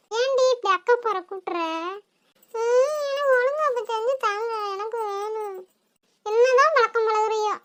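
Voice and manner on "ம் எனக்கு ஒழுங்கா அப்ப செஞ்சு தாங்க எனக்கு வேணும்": whining cry. Acted. Child whining for biryani.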